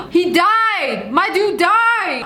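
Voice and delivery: drawn-out shocked delight; slow amazed exclaim. Real, not acted. Host reacting to the father's death, slow and amazed. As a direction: stretch it out in disbelief.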